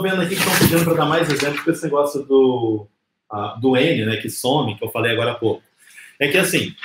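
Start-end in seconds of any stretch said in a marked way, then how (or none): none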